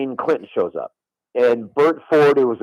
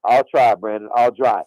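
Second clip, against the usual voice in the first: put-on Arkansas accent; 4 semitones lower than usual. President agreeing to his new caddy's request, imitated Arkansas accent. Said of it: "In that Arkansas accent".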